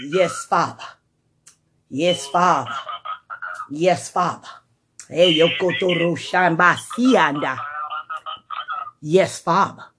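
low hushed thanks; quiet worship. Real, not acted. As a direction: murmur thanks softly to God.

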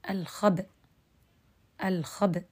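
الخبأ stopped dead on a bare sukun, no vowel; pure sukun stop. Shown as a demonstration. Teacher demonstrating the pausal form, الخبأ ends on pure sukun. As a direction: clip الخبأ short with a full sukun. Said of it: "بسكون محض".

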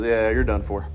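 low, snarky verdict; sly. Acted. Snarky Jesus to the demons, slyly. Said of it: "He slyly smiles and says".

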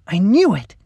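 high, loud, excited; gleeful exclamation; triumphant cry. A narrator's reading. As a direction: crow that you were right all along. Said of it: "Lacey cried".

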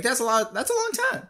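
high, rising inner voice; retold worry. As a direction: quote his own panic. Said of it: "I'm like".

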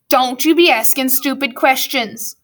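stern master's character voice; scolding schoolmaster. Acted. Grumpkin to Prentice after cuffing him, stern scolding. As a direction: tell the boy off sternly.

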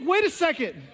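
high, loud, slow laughing disbelief; mock disbelief. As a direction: act stunned that prayer worked. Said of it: "It's like".

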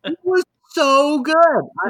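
high, loud, laughing and cracking up; breathless laughing praise. Real, not acted. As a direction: say it mid-laugh. Still laughing.

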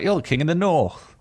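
a starstruck stranger spotting him; fans calling out. Retold or imitated. Fan in the street calls out to the actor, mock starstruck. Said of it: "being like".

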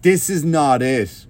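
slow, deliberate mock disapproval; mocking catchphrase. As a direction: parody a smug online commenter. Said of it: "social media line".

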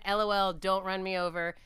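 loud, sing-song LOL greeting; spelling out L O L as a chirpy greeting; cheery greeting. Retold or imitated. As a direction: spell out the letters in a chirpy call. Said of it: "Do you say L O L out loud?".

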